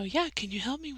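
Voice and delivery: softly imitated coworker asking for help. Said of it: "She lowered her voice".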